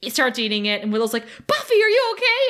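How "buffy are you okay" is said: higher, louder worried question; worried friend. Retold or imitated. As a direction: call out to her in alarm. Willow worried about Buffy's behaviour.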